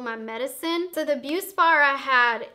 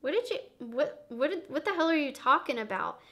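confused what; 6 dB quieter than usual. Retold or imitated. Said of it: "Slava was like".

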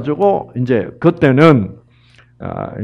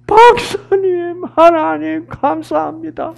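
much higher, choked-up retold sobbing thanks; tearful thanks; 13 semitones higher than usual. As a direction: voice the woman breaking into tears. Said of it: "막 울음이 터진 거예요". (울먹이며 높은 목소리로)

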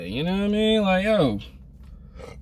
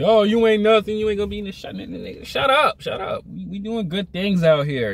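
mocking New York guys; 4 semitones higher than usual. Vlogger mimics the trash-talking guys from New York, jeering. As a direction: sneer like the old crowd back in New York. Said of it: "You sound like guys at my old freaking".

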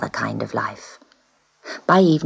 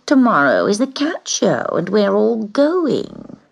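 scornful; 4 semitones higher than usual. Acted. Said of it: "she said scornfully".

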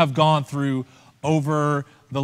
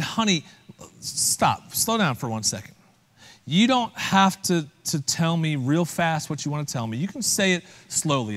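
mildly deliberate, softer fatherly reply; 4 dB quieter than usual. Retold or imitated. Father calming his hurried daughter after dinner, mildly deliberate. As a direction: gently rein in an excited child. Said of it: "in a very deliberate manner".

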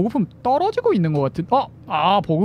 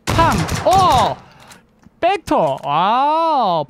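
excited call; 6 semitones higher, 4 dB louder, much slower than usual. Real, not acted. Caster reacts to a sudden fight.

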